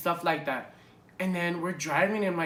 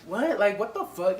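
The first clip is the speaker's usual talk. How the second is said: high, loud retold disbelief; shocked; 5 semitones higher, 6 dB louder than usual. Passenger reacting to the cop's sudden order, retold shock. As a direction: re-enact being stunned, voice jumping up. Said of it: "so fucking shocked".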